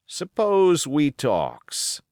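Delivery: slow, breathy conspiratorial whisper; a pirate whispering a deal; sly whisper. Acted. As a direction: lean in and whisper the offer. Sly proposal to the boy.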